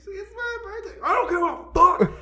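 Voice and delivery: high, defiant mock whine; birthday girl snapping back at the bartender; drunk birthday girl. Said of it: "She's like".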